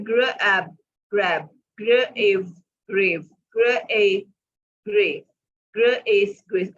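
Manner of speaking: ग्र एब split, then ग्रैब joined, word by word; phonics blending. Shown as a demonstration. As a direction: sound out each part, then blend it. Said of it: "it's ग्र". (ग्र एब, फिर ग्रैब, ध्वनि जोड़कर पढ़ाना)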